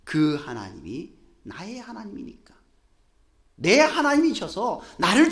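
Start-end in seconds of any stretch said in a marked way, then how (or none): 0.1-2.5 hushed, breathy whisper of awe; whispered to himself; whispered confession. Acted. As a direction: whisper it like a private prayer. Preacher voices David's confession.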